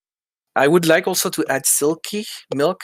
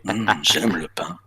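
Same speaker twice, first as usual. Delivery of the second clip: low, laughing seductive French; sexy voice; 4 semitones lower than usual. Shown as a demonstration. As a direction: purr it with a laugh. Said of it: "repeats sexy French line".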